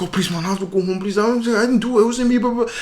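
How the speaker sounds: high-pitched imitation of begging; mock pleading. Cornered guy begging to go home, mock pleading. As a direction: plead like a cornered kid, played up. Retold guy begs to be let go.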